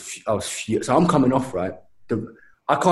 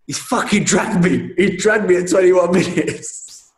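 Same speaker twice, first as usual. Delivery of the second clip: high, slow, indignant wail; pitched-up aggrieved protest; outraged complaint; 6 semitones higher, slower than usual. Retold or imitated. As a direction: re-enact furious disbelief, stretching the words. Retold outraged complaint to mate.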